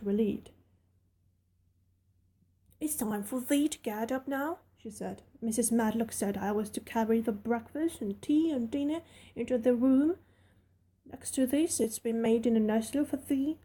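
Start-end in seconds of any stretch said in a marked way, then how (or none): 2.8-13.6 put-on friendly servant girl rattling on; Yorkshire maid Martha. Martha speaks again.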